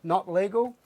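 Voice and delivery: loud, high heckle from the background; heckling. Retold or imitated. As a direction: call out over the announcement. Shouting back during announcement.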